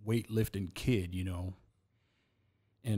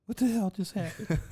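manager; 10 semitones higher than usual. Retold or imitated. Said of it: "He goes".

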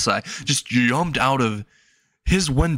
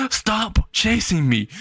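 much higher, slow drawn-out complaint; exasperated plea; 8 semitones higher, slower than usual. Acted. Boy begging the pursuer to stop, high and slow. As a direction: stretch it out, fed up.

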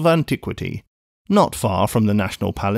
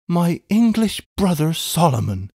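high, plaintive lament; mourning; 6 semitones higher than usual. A narrator's reading. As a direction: mourn over a wayward brother in a raised voice. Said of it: "mourned Miss Pross".

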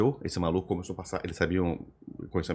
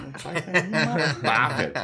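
put-on scared teen; 4 semitones higher, slower than usual. Teen terrified after being caught.

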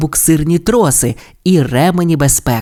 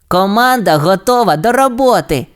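exclaiming pup; 6 semitones higher than usual. A narrator's reading. Rocky offers the team for repairs, eager exclamation. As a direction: announce readiness eagerly in character. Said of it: "вигукнув Рокі".

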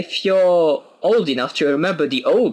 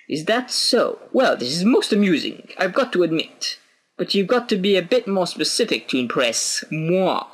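higher, unimpressed listener voice; sceptical listener; 5 semitones higher than usual. Acted. Listener challenging the old pirate's tale, amused scepticism. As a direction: play an amused doubter.

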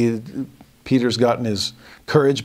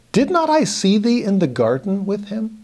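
accusing kinsman; 8 semitones higher than usual. Acted. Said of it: "And he said".

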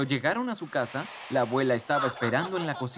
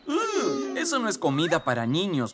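protesting; 3 semitones higher than usual. Acted.

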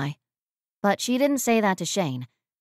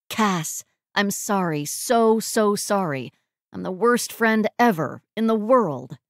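effusive, emphatic apology; gushing apology. Acted. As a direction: apologise profusely, leaning on each "so". Friend's gushing apology on reunion.

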